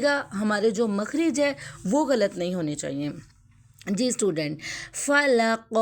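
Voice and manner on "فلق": فلق ending on a bouncing, echoing q; qalqalah on qaf. Shown as a demonstration. Teacher demonstrating qalqalah, فلق with a bounced q. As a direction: pop the final qaf of فلق. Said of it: "قاف پر میں نے کلکلہ".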